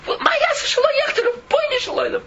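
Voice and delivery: high, loud, breaking cry of pain; anguished cry. Real, not acted. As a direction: cry it out from the heart. Impassioned cry in sermon.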